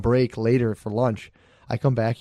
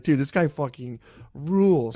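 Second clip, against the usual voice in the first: laughing; 2 semitones higher, slower than usual. Real, not acted. Said through laughter, slow.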